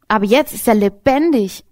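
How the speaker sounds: "lebendig" as the emphatic last word; stress on lebendig. Shown as a demonstration. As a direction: lean hard on "lebendig" at the end. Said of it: "Betonung auf lebendig".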